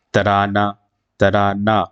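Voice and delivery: ترانہ ending in an open aa, no h; alif-like ending. Shown as a demonstration. Teacher repeating an example for students, final aa held. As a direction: let the last vowel of ترانہ ring as a long aa. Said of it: "الف جیسی آواز یہاں سے آ رہی ہے".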